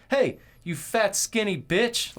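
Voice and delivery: high, loud mock heckle; trash-talking Abraham Lincoln. Retelling a skit where Lincoln talks shit, mock trash talk. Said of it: "it was Abraham Lincoln talking shit".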